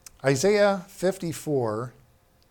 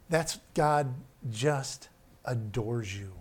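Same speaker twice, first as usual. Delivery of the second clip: tender; 3 semitones lower, slower than usual. Real, not acted. Tender aside, slow.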